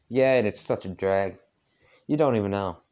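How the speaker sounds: put-on heavy southern accent. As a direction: lay the southern accent on thick. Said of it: "I'm trying to do a southern accent".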